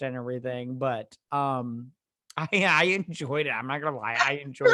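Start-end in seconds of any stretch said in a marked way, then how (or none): 4.2-4.7 high squeaky insistence. Pretend. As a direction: squeak it out playfully. Squeaky emphatic repeat.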